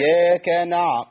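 slow "إياك نع-" with a medium-length ayn; deliberate "إياك", stopping on the ayn of "نع-"; measured ayn. Shown as a demonstration. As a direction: demonstrate "نع-" without overextending the ayn. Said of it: "التوسط بتاعي ما يزيدش قوي".

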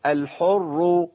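الحر slow, thick rolled r before u; heavy raa. Shown as a demonstration. Teacher models tafkhim, slow heavy r in الحر. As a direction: hold الحر with a heavy double r. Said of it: "مفخم".

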